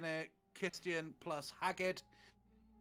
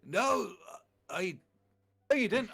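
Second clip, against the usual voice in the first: mock angry protest; 6 semitones higher, 8 dB louder than usual. Arguing in the fan fiction reading.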